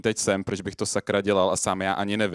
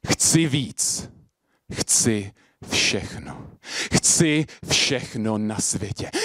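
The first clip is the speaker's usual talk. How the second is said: very slow, weighty slam delivery; deliberate poetic opening; slam poetry; much slower than usual. Acted. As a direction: draw out each short phrase, with pauses. Performs slam poem on stage.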